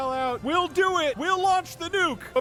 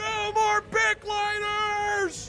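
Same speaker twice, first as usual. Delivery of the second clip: stately regal proclamation manner, very slow, drawn out; 4 semitones higher than usual. Voicing the king as he shouts a new law: king shouting. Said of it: "The king shouts out".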